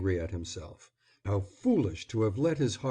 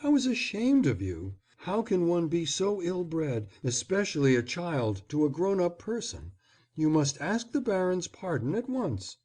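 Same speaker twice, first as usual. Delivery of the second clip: motherly; 8 semitones higher than usual. A narrator's reading. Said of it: "in the motherliest of tones".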